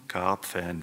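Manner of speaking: "Karpfen" pronounced slowly and distinctly, falling; correcting. A narrator's reading. Carps correct the woman's slip, "Karpfen" said distinctly. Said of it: "verbesserten die Karpfen".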